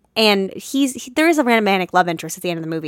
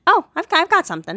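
excited; 9 semitones higher, 3 dB louder, faster than usual. Retold or imitated. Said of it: "and I went".

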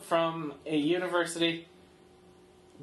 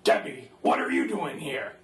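low, knowing imitating Moon; knowing greeting; 7 semitones lower than usual. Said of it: "Moon very knowingly says".

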